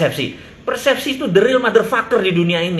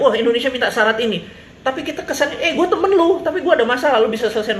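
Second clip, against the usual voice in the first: mock delegation voice; 6 semitones higher than usual. Acted delegation quote.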